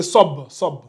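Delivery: "sob" as one closed syllable; short "sob", stopped on b; corrected syllable. Shown as a demonstration. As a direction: end "sob" on the b, no vowel after it. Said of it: "C'est pas ba".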